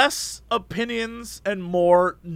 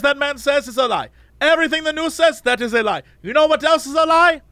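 lightly voiced ranting cab driver, higher; 5 semitones higher than usual. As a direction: imitate the driver's conspiracy rant. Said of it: "this guy was like".

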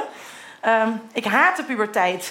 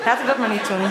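laughing; faster than usual. Real, not acted. Laughs at own idea.

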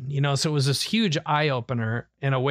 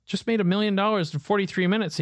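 higher and quicker, a touch thrilled; retold excitement; 6 semitones higher, faster than usual. Son telling dad the million-dollar news, mildly excited. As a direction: tell it again with a hint of giddy pride.

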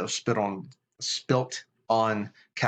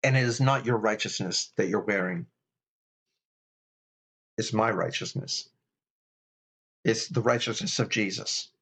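gentle reminder; 3 semitones lower than usual. Retold or imitated. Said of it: "the Holy Spirit just says".

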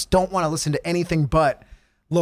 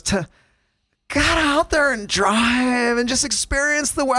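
slow, dreamy ad voice after a pause; lightly mocked radio ad read; affected DJ ad read; 5 semitones higher, slower than usual. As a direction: savour it like a breathy car ad. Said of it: "she, like, pauses".

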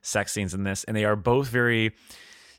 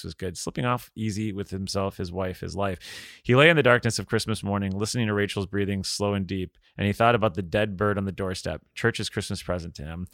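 composed storytelling, softer at sentence ends; story narration; 2 semitones lower, 4 dB quieter than usual. A narrator's reading. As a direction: read the love scene evenly aloud. Reads King's prose aloud.

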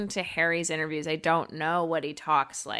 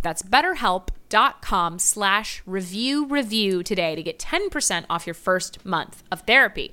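ad read. Acted. Host reading the sponsor plug to listeners, ad-read style. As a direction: spell out the URL like a podcast ad.

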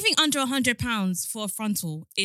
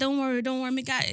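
put-on Jamaican accent; 2 semitones higher than usual. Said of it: "in her Jamaican accent and everything".

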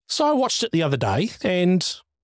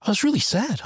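high, mopey imitation of the teenage son; mock the son's sad confession; dad mimicking his son saying he was sad; 8 semitones higher than usual. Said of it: "He goes".

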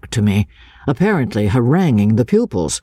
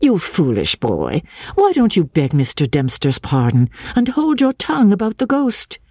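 good-humoured; 6 semitones higher than usual. Acted. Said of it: "good-humouredly".

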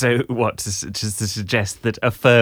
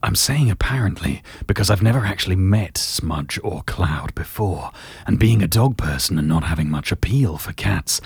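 Gerald voice. Acted. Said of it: "just do Gerald again".

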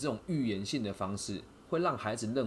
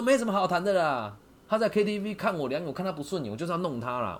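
higher, louder hostile refusal; imitated angry thug; 8 semitones higher, 5 dB louder than usual. The older youth refusing to talk, hostile and loud. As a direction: bark it out like a local tough. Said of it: "他说".

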